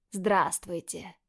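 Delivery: slow, careful greeting; greeting gently so as not to scare the boys; cautious. Acted. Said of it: "С осторожностью, боясь спугнуть мальчиков". (осторожно, медленно, чтобы не спугнуть)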